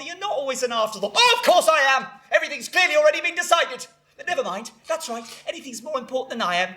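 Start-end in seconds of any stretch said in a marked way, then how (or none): 1.1-3.9 sudden indignant outburst; aggrieved retort. Acted. Mother insisting she is left out, indignant outburst. 4.2-6.7 softened, hurt resignation; martyred. Acted. Mother giving up on her son, softly martyred.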